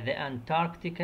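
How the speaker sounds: "the Antarctic" drawn out slowly, each syllable given room; slow model word. Shown as a demonstration. Teacher modelling "the Antarctic" slowly for her Arabic-speaking students. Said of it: "teacher models the English word".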